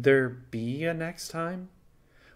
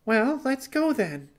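much higher, eager burst; blurted out; 13 semitones higher than usual. Acted. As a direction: blurt it out, too keen to wait. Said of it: "she blurted".

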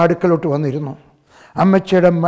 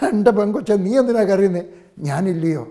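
raised, pleading voice for Jesus; preacher voicing Jesus; 3 semitones higher than usual. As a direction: call out to her as Jesus would. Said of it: "യേശു പറയുന്നത് അതാണ്".

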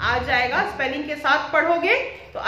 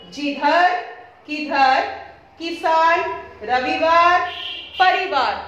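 reading a word list; slower than usual. Shown as a demonstration. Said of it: "ये spellings आप".

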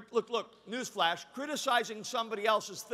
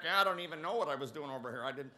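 sheepish churchgoer; 5 semitones lower than usual. Acted. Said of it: "And then most men are like".

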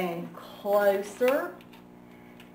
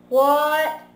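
a loud, higher "What?" called back; shouted reply; 5 semitones higher, 8 dB louder than usual. Acted. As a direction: yell back to mom. Froggy answering his mom.

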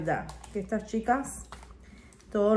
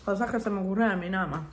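laughing; much faster than usual. Real, not acted. Laughing at herself.

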